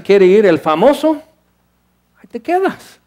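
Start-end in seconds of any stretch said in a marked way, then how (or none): 2.2-3.0 jumps up high on the whole phrase; high mocking lilt; mocking sing-song. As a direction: tease the fan left behind. Mocking the abandoned fan.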